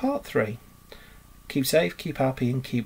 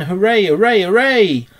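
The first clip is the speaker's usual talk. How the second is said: high, very loud repeated cheers; jubilant cheering; 7 semitones higher, 9 dB louder than usual. A narrator's reading. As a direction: cheer louder and higher in triumph. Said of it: "Rat cried".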